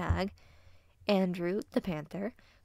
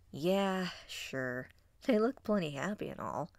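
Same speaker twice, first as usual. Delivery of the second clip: reluctant, grudging agreement; awkward grumble. Acted. Wolf put on the spot by his mate, grumbling awkwardly. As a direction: grumble it, a little embarrassed. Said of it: "he grumbled, looking awkward".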